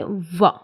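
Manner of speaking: व as a vibrating English v; V with vibration. Shown as a demonstration. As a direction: buzz व on the lip, low in pitch. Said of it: "ऊपर के दांतों से touch करेंगे".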